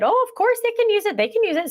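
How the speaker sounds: high-pitched, breezy permission; obliging mom. Retold or imitated. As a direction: imitate a mom gladly saying yes. Another mom gladly agreeing, retold.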